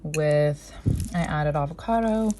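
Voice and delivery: winded from running up the stairs; breathless, puffing between words; out of breath. Real, not acted. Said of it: "sorry, I'm out of breath".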